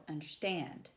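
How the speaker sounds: un-der-STAND, weight on the last syllable; anapest stress. Shown as a demonstration. Teacher demonstrating anapest, understand stressed on "stand". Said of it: "unstressed, unstressed, stressed".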